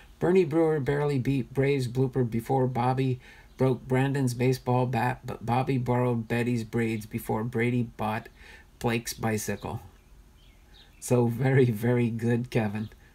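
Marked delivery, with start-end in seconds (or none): 0.2-9.8 very fast, rattled-off, raced straight through. Rereading a tongue twister to try it faster, reading fast. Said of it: "see if I can read it a little bit faster".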